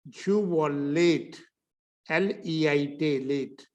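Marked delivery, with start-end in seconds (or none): 0.1-1.4 slow 'you were late', WERE as 'va' without R; reduced 'were'. Shown as a demonstration. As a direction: drop the R of 'were' before 'late'. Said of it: "मैं इसको और आपको छोटा करके बताऊंगा". (बिना र वाला छोटा उच्चारण)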